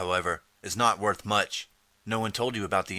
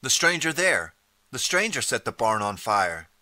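screaming accusation; 3 semitones higher, 4 dB louder than usual. Acted. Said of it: "a woman screams".

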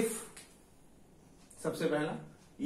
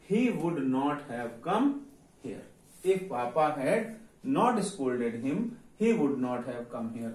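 slow dictation; much slower than usual. Shown as a demonstration. Teacher dictating the English sentence.

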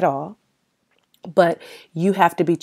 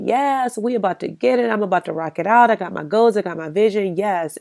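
higher-pitched hyped-up self-talk; retold excitement; 4 semitones higher than usual. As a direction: pump yourself up, starting high and easing down. Retells her hype at each new year.

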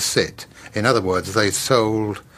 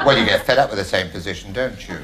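Larry Grayson impression. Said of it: "as Larry Grayson".

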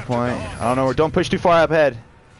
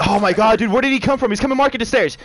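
shocked outburst; 10 semitones higher, 4 dB louder than usual. Real, not acted. Ambushed from behind in match.

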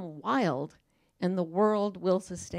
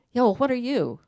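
brash caterpillar; 4 semitones higher, 7 dB louder than usual. Retold or imitated. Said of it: "caterpillar challenges butterfly".

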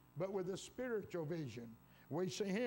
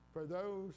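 THOSE stretched slowly for emphasis; slow down and lean on those; stress on THOSE. Real, not acted. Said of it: "I'm emphasizing that word".

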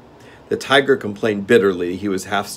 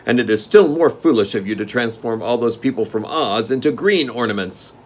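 steward; 4 semitones higher, 7 dB louder than usual. Acted. Steward scolds.

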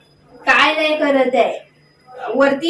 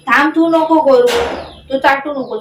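firm scolding; 5 dB louder than usual. Real, not acted. Scolding pet while grooming.

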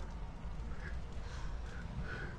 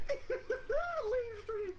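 laughing mock mispronunciation; 12 dB quieter than usual. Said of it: "start calling my shit that".

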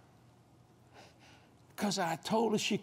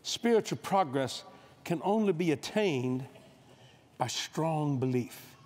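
slow, spaced phrasing for note-taking; slow dictation with a stress on "strong"; dictation pace; 3 semitones lower, slower than usual. Shown as a demonstration. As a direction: give it slowly so they can write it down. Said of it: "See, write this down".

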